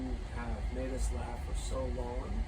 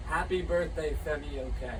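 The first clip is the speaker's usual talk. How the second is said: birthday shout-out; 3 semitones higher, 5 dB louder than usual. Real, not acted.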